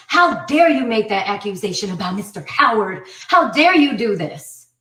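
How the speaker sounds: imitating a scolding judge; retold reprimand from the bench; indignant rebuke.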